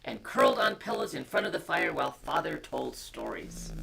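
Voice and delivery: put-on gentle read-aloud to children; storybook reading. A narrator's reading. Parent reading a bedtime story to children, gentle.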